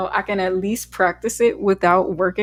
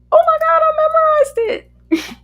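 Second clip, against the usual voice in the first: excited; 9 dB louder, slower than usual. Real, not acted. Thrilled at memorizing the song.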